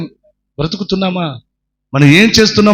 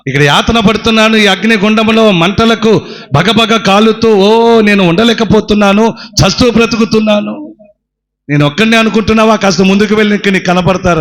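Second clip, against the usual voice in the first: suffering man pleading; 5 semitones higher than usual. Acted. Treasurer burning in hell answers the mother, pained pleading. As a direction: beg like a man burning in fire.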